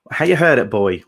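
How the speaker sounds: a hint of Suffolk dialect; Suffolk accent. Host announces the word-of-the-week segment, Suffolk accent. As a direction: put on a light Suffolk lilt. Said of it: "talking about the Suffolk accent, this is our".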